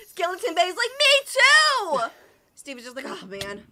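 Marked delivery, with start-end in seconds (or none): 1.0-2.0 high, loud pleading pipe-up; excited, high-pitched mock plea; eager me-too. Skeleton begs for pats too. 3.1-3.6 low, very soft sigh of defeat; small, low mock-weary murmur; resigned. Acts out resigned Steve.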